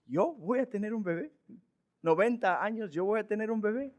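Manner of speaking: soft incredulous mock question; Sara's disbelief. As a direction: scoff quietly at the idea. Sara laughing in disbelief.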